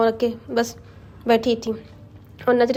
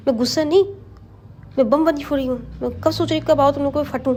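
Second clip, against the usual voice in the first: angry mother; 3 semitones higher than usual. Acted. Angry aunt confronts late kids.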